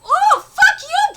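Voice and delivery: loud, high burst of indignation; heated, drawn-out reaction; indignant outburst. Real, not acted. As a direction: curse them out loudly, drawing it out. Reacting to Blue Keeper's insult.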